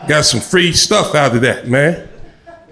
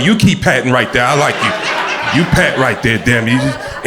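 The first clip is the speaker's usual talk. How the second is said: flirty; 4 semitones lower than usual. Retold or imitated. Flirting with the waitress.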